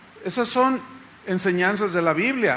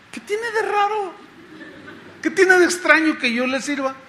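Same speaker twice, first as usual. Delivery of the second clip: high-pitched puzzled protest; incredulous; 9 semitones higher than usual. Retold or imitated. Pastor asks why serving them is strange, incredulous. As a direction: question it as if it makes no sense. Retells baffled answer to the woman.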